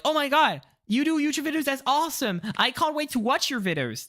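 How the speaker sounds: high, gushing fan voice; excited friends. Retold or imitated. Friends gushing over the YouTube channel, high and eager. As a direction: gush like a thrilled friend. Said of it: "friends that are like".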